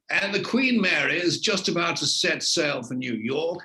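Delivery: a hint of an old-fashioned reporter's delivery on the dockside; old-style TV reporter. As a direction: mimic his own early broadcast voice, only a touch. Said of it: "And I spoke like that".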